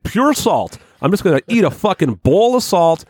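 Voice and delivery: high goofy gleeful voice; mocking Will. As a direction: ham up a dumb eager guy. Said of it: "Will was like".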